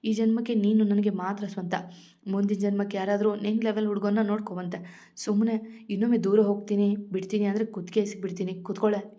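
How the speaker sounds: ordinary delivery, nothing marked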